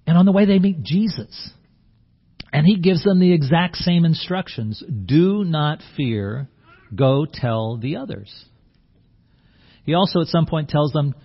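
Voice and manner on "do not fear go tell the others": slow gentle command. Pretend. Jesus instructing the women.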